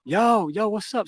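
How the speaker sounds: high, drawn-out "yo" hail; acted calling out. Teen calling up to a girl above, acted calling out.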